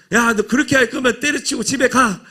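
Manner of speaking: mock angry order to quit and go home; scolding coach. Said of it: "감독이".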